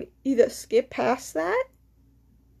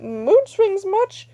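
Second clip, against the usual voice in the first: sarcastic jab; 6 semitones higher, 4 dB louder, much slower than usual. Real, not acted. Mocking a moody classmate.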